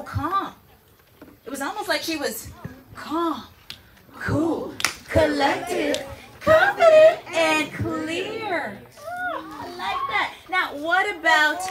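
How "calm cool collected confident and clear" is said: emphatic rise. Real, not acted. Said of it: "teacher chanting the phrase".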